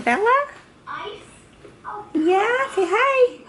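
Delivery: high, sing-song coaxing voice. Real, not acted. Prompting toddler to greet camera.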